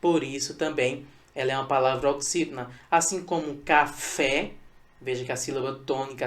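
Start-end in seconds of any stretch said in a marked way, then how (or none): 3.6-4.5 "café" said slowly as ca-FÉ; stress on last syllable. Shown as a demonstration. Teacher giving another example, "café" slowly with weight on fé. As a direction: lean on the final "fé" of "café". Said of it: "a sílaba mais forte é a sílaba fé".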